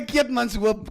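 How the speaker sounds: mimicked Shine's accent; mock version of Shine's accent. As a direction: put on Shine's accent for the place name. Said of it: "Shine's accent".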